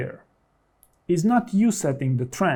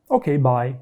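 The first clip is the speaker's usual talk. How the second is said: curt goodbye. Shown as a demonstration. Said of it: "the mistake you want to avoid at all costs is just say".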